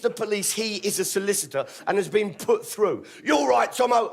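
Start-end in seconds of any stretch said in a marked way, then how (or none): 3.2-4.1 cheery shout. Retold or imitated. Martin voiced on phone.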